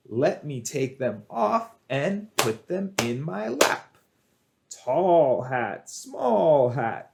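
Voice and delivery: measured, playful rhyme with swooping key words; children's rhyme. Shown as a demonstration. Teacher leading children in a hat rhyme, singsong rhyme delivery. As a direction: chant an action rhyme for little kids.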